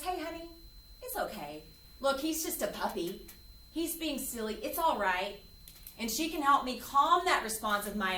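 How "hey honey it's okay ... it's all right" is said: soothing mom. Retold or imitated. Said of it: "my mom is with me and she says".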